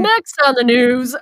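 slow, loud news teaser; news anchor voice. Shown as a demonstration. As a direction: announce it like breaking news. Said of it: "I just like that voice".

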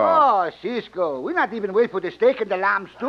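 dismayed protest. Acted. Pancho begs Cisco to wait for the steak, dismayed protest. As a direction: whine for your supper in a Mexican accent. Protests leaving before supper is eaten.

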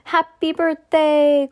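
high, loud drawn-out greeting; birthday cry. A narrator's reading. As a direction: call it out slowly to the birthday child. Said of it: "cried the four old grandparents".

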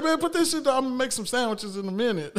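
lightly voiced mom waving the chips away; mom brushing off. A touch of a busy mom telling her son to put it down.

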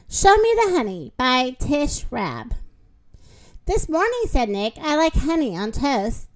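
lively, sing-song storybook narration; reading to children. A narrator's reading. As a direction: read it like a bedtime picture book for kids. Reads picture book aloud.

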